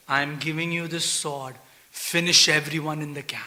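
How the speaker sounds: Shiva's command. Retold or imitated. Lord Shiva gives sword.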